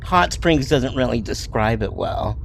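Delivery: lightly voiced nerdy girl; nerd voice. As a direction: read it like a shy nerd. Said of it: "that was my nerd voice".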